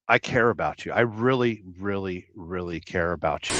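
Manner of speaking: tenderly overdone, trailing down quietly; mock sincere. YouTuber telling his subscribers he cares, mock heartfelt.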